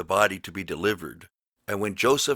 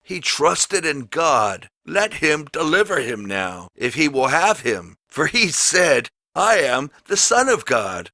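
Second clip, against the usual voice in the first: scornful mockery; 7 semitones higher, 6 dB louder than usual. A narrator's reading. Chief priests mocking the man on the cross, loud high sneer. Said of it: "mocking him".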